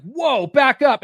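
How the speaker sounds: alarmed warning. Retold or imitated. Man warning off the neighbor's charging dog, alarmed. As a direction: call out in mock alarm to back it off.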